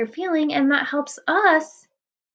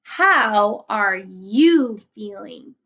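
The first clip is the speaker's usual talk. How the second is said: slow, gentle closing question; reading to children; 2 semitones lower, much slower than usual. A narrator's reading. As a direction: ask it tenderly, slowly. Reading the book's last line.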